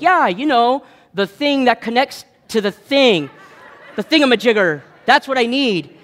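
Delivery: high, bright mock-clueless voice; playing dumb at the parts counter; mock clueless customer. Talking to the AutoZone guys, a hammed-up clueless customer.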